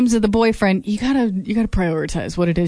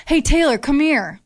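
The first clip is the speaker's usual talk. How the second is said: higher-pitched beckoning call; 6 semitones higher than usual. Retold or imitated. Studio owner calls a dancer over, higher-pitched call. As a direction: call someone over, higher than usual. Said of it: "I thought she goes".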